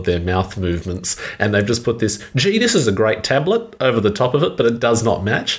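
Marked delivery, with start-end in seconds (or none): 2.3-3.8 higher-pitched dubbed American mum; American ad mother. Acted. Mimicking a badly dubbed dishwashing ad, American mom voice. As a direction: do an overdubbed tablet-advert mother, pitched up. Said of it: "obviously an American mother or family member".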